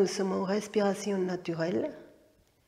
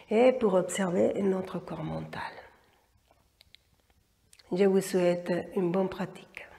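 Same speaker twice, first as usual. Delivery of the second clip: whispering. Real, not acted. Closing the talk before practice.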